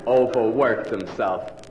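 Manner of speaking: slow, scornful echo of "Overworked himself"; mocking repeat. Shown as a demonstration. Lecturer mocks the idea that the man broke down from overwork. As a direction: drag out "Overworked himself" as if it's absurd. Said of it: "What nonsense".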